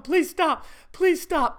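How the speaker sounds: high, loud pleading through laughter; breathless plea from laughing too hard; begging through laughter. Retold or imitated. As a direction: gasp it out mid-laugh. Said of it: "I'm crying".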